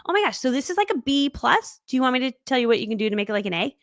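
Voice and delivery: high, upbeat, tactful coach; encouraging feedback. Acted. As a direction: soften the critique with bright encouragement. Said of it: "I always say it like this".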